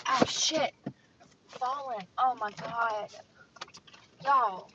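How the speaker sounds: sudden loud startled outburst; alarmed exclamation. Real, not acted. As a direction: jump at the falling thing. Something falling, startled.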